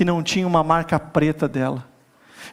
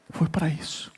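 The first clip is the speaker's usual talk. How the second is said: a softer, hushed "Foi pra isso"; hushed echo; 3 semitones lower, 9 dB quieter than usual. Retold or imitated. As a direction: repeat "Foi pra isso" much softer, almost breathed. O Espírito olhou pra mim e falou assim.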